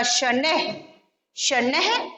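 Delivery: शनैः with a light h after the ai; visarga pronunciation. Shown as a demonstration. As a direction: say शनैः with the final visarga aspirated. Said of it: "इस तरह बोलते हैं".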